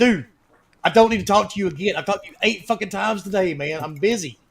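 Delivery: blunt, rude, irritated and fed-up tone. Retelling what was said to a subcontractor who kept calling: retelling own rude reply. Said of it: "I actually got rude with one of my subcontractors".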